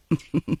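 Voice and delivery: short, quiet laugh; soft chuckle. Acted. Aunt amused at her nephew's new nickname, soft chuckle. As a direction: chuckle softly to yourself.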